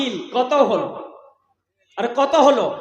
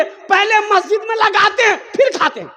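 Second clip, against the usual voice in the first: shouted protest; 9 semitones higher, 5 dB louder than usual. Acted. Cheat repeats answer, shouting.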